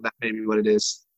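choppy digitized audio; breaking up over a bad line; buffering stutter. Real, not acted. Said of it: "You're getting digitized".

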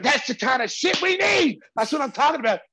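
high, loud shouted approval; fired-up coach. Retold or imitated. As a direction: imitate a coach roaring his delight. Coach cheering the player's toughness.

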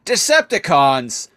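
rally the troops in a screechy villain voice; shrill Starscream rant. Retold or imitated. Starscream turning the Decepticons on Megatron, high and loud. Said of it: "He's like".

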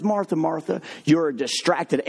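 calm Jesus voice, lightly done; Jesus gently telling Martha she's distracted; gentle rebuke. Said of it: "He, he looks at her and goes".

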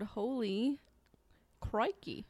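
a hint of Australian, drawn out; mock Aussie wildlife host exclaiming, lightly; bad Australian accent. Co-host jokes like an Australian croc hunter, light Aussie accent. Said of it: "That was a really bad accent".

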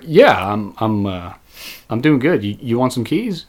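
soft, halting, sheepish retold answer; awkward reply. Caught worker offers customer keys, quiet and awkward. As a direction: stumble quietly through small talk.

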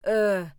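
loud exasperated ugh; embarrassed grunt. Acted. Embarrassed Papa giving in, loud grunt. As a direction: groan like a cornered dad. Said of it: "said embarrassed Papa".

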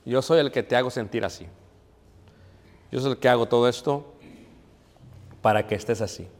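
soft, close voice of fear whispering in the ear; fear's voice. Acted.

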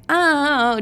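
high, airy drawn-out exclamation; exaggerated happy-driver act; carefree singsong. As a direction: cruise along blissfully oblivious. Acts out carefree driving before crash.

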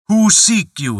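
booming giant demand; voice of thunder. Acted. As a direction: roar it out like thunder. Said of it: "in a voice of thunder".

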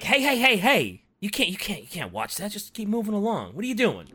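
hammed-up scold of a friend; mock scolding shout. Sarl yelling at Talos to keep moving.

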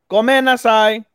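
high, loud hammed-up apology; mock anime apology. Podcaster playing an anime character saying sorry, mock dramatic cry.

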